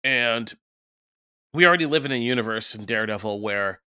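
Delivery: talking through hiccups; speech broken by hiccups. Real, not acted. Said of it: "I have the hiccups so bad".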